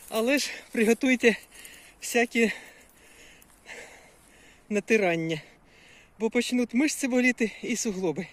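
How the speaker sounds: pushing words out mid-run; breathless jogging talk. Real, not acted. Vlogger inviting viewers to join her run, breathless. Talking to camera while running.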